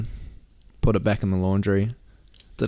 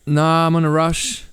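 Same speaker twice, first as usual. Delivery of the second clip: higher, slow dismissive voice; mock refusal; 8 semitones higher, 4 dB louder than usual. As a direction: drag out the no. Refusing the stranger.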